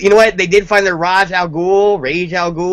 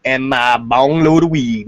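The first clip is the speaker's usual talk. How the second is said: mock ghetto persona; 4 semitones lower than usual. Cohost asked what she's drinking, answers in a hammed-up low gangsta voice. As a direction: play a hammed-up street tough bragging. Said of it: "I'm not trying to be stereotypical".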